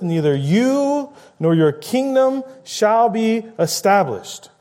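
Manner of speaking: stammered you, you, then high and slow; angry king. Acted. Preacher voicing Saul raging at his son, high and angry. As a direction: build the king's fury as it spills out. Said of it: "Then Saul's anger was kindled".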